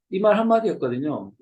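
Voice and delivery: ordinary talk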